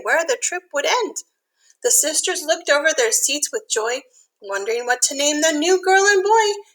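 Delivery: lilting storybook read-aloud; reading to children. A narrator's reading. Teacher reads a rhyming picture book to kids, lilting. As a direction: read the rhyme gently to little listeners.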